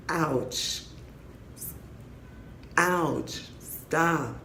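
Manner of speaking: small, high, soft protest; mock pained whimper. Joking about being taken with no lube, mock whimper. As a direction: whimper it faintly in pretend pain. Crude joke, acting out being hurt.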